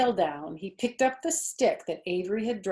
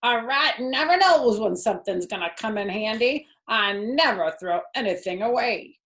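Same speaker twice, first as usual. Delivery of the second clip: surly rat; 4 semitones higher, 5 dB louder than usual. Acted. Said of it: "he said in his surly voice".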